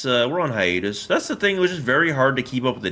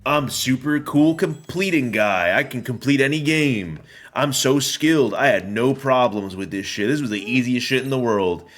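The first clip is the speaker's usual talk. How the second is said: cocky bragging; 4 semitones higher than usual. Retold or imitated. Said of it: "I'm always like".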